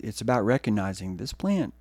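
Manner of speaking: ordinary talk, nothing marked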